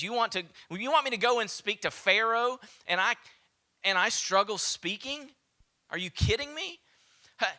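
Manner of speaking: high and loud, tumbling protest; panicked objecting. Acted. Moses protesting to God, high and panicked. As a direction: sound like a man backing out fast.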